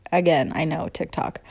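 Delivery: breathy whisper, dropped low in level; whispered aside. Real, not acted. Quick self-conscious aside.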